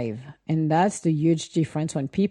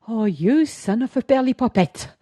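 mock exasperated outburst; 6 semitones higher than usual. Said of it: "I'm like".

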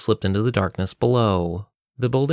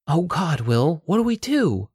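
frightened; 7 semitones higher than usual. Acted. Cornered, temple collapsing.

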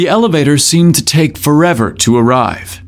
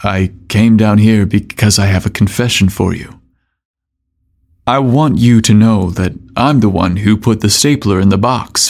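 tender; 2 semitones lower than usual. Acted. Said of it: "Grant tenderly stated".

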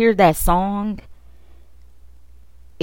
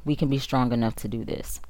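"We" stressed, much softer; faltering; 3 semitones lower, 7 dB quieter, faster than usual. Real, not acted. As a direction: fade down, stress "We". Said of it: "Like, we can be strong enough to do this".

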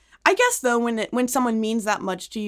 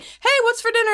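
mock casual dad; 11 semitones higher than usual. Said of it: "my dad's like".

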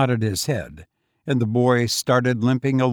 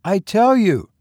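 higher, louder boy, a hint of hoarseness; hoarsely; 9 semitones higher, 6 dB louder than usual. A narrator's reading. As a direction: push it out, a hoarse young lad. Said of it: "the boy said hoarsely".

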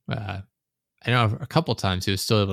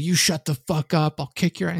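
mimicked tantrum in a raised pitch; retold angry screaming; 8 semitones higher than usual. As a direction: imitate the raging teammate snapping back. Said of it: "it's just screaming at the top of his lungs".

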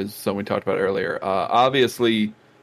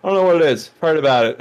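imitated Tony Stark; 6 semitones higher, 5 dB louder, much faster than usual. Quotes Tony back from death.

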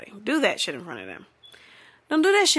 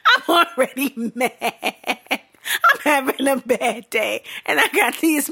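whiny exasperation; 4 semitones higher, 4 dB louder than usual. Real, not acted. Ranting about her bad day, whiny exasperation. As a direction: complain in a loud comic whine.

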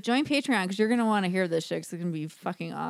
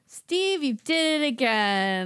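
cheesy soap scold; 3 dB louder, slower than usual. Retold or imitated. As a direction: ham it up like a cheesy sitcom. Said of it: "cheesy, like".

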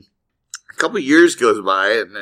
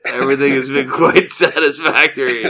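laughing; 2 semitones higher than usual. Real, not acted. Repeats punchline laughing.

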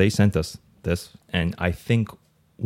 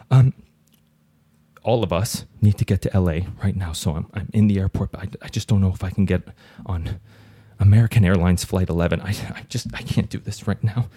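nervous caller voice. Acted. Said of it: "I'll do both voices".

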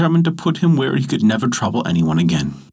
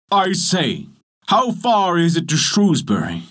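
wicked giant voice; 7 semitones higher than usual. A narrator's reading. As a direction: call out like a wicked old giant. Giant calls out to cobbler.

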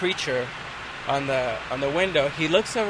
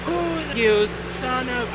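angry captain; 7 semitones higher, slower than usual. Retold or imitated. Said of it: "and says".

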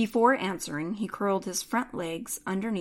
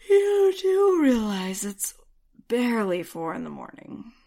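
talking cat; 4 semitones higher, 6 dB louder than usual. A narrator's reading. The cat Jax speaks.

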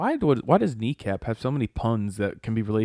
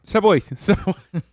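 shouting; 8 semitones higher than usual. Pretend. Bee shooing, higher.

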